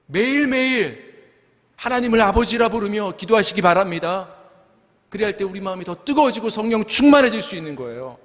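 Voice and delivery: high, sustained, urgent pulpit delivery; fervent preaching. Real, not acted. Pastor urging congregation to be Spirit-filled, fervent preaching. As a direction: exhort the congregation with full fervor.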